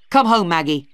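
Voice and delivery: loud, stern order to come home; angry command. Acted. Brother drags his sister away from Philip, angrily. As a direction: bark it like a final order. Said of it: "he said angrily".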